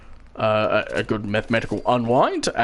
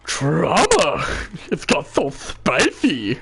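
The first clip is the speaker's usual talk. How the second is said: excited gossip; 4 semitones higher, much slower than usual. Acted. Gossiping crowd voice.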